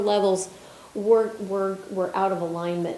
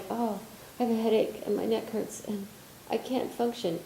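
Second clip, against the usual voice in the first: mock whiny complaint; 8 dB quieter than usual. Mocking a suffering person.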